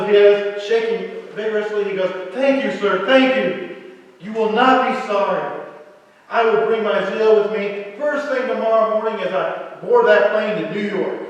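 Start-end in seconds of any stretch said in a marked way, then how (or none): 2.3-11.2 louder, eager, pumping thanks; young salesman thanking the buyer for a promotion; overwhelmed gratitude. Acted. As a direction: shake his hand and gush.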